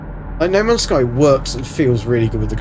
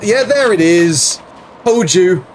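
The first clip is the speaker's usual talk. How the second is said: higher, excited I-told-you-so; raised, gleeful vindication; triumphant gloating; 5 semitones higher, 3 dB louder than usual. Real, not acted. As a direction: crow it, proved right at last. Gloats on finding what was predicted.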